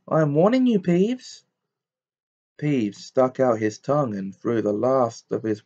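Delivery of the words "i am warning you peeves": high, stern warning; shouted warning. A narrator's reading. Professor warning the poltergeist, stern shout. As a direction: raise the voice in a severe threat. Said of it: "shouted Professor McGonagall".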